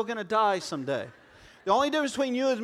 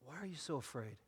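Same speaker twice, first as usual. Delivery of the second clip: gentle question; 7 semitones lower, 18 dB quieter, faster than usual. Acted. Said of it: "He said".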